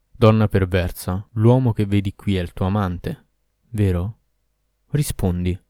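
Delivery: a hint of a stern demon, slow at first; lightly voiced Ifrit, accusing; menacing Ifrit. Ifrit interrogating the captive girl, lightly menacing.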